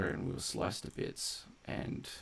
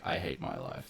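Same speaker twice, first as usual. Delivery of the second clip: much lower, droning mopey robot voice; depressed robot; 14 semitones lower than usual. Retold or imitated. Streamer voicing the depressed robot he hired, low droning moan. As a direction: drop way down and moan it like a gloomy machine. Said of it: "and he's like".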